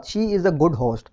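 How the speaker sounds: reading the faulty sentence out very slowly; teacher reads the error word by word; slow wrong example. Shown as a demonstration. Teacher slowly dictates the wrong sentence to students. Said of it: "error है वो host के अंदर".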